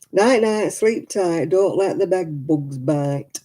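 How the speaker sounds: a hint of northern English accent in the goodnight rhyme; sing-song bedtime rhyme in a light northern English accent; lightly put-on northern accent. Saying goodnight to Miguel, light northern English accent. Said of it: "That was my accent".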